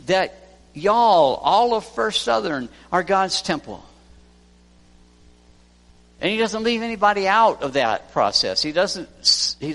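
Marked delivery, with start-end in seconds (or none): 0.0-3.8 proclaiming. Real, not acted. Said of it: "preacher proclaims to congregation".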